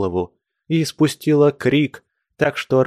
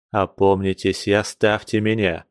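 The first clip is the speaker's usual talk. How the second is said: stern; 2 semitones lower than usual. Acted. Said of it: "строго сказал он".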